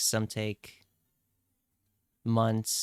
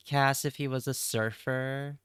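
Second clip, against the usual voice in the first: surfer voice. Acted. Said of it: "did that come off as a surfer voice".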